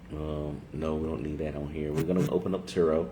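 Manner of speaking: speaking through hiccups; hiccuping between words. Real, not acted. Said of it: "Excuse me for the hiccups".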